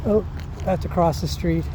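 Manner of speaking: talking while jogging; breathy, running pace. Real, not acted. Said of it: "Talking and running's kinda hard".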